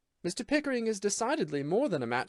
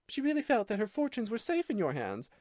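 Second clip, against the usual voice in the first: higher female voice, cold and scornful; cold disdain; 8 semitones higher than usual. A narrator's reading. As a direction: lay out his failure with icy contempt. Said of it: "cold indifference to the most severe disdain".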